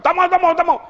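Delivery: put-on high, rapid childish refusal; imitated refusal. Preacher as child refusing food, high stubborn protest. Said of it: "Dalam tak mau, tak mau tu".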